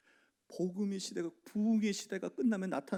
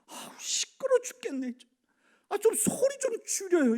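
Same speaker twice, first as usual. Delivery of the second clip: mock irritated deaconess, higher and louder; annoyed complaint; 14 semitones higher, 9 dB louder than usual. Deaconesses complaining the sound is too loud, mock annoyed. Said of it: "뭐라고 얘기하냐면".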